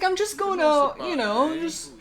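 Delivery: high, loud, fast surfer dude; surfer bro voice. Pretend. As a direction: play a laid-back surfer bro. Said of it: "I sound sort of like a surf-, surfer bro".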